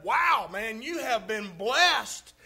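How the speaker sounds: loud, wowed friend; impressed exclamation. Retold or imitated. Friend in the joke marvels at the inheritance, loud and wowed. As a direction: call it out like he's truly impressed.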